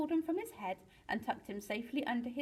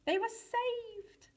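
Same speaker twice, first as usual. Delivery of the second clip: high, drawn-out cry of joy; jubilant relief; 13 semitones higher, much slower than usual. A narrator's reading. Mister Penguin dances on the rubble, jubilant. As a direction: stretch it out in triumph.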